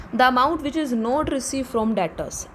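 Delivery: very slow, word by word, as if for notes; slow dictation. Shown as a demonstration. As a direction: dictate each word so students can write. Teacher dictating a definition.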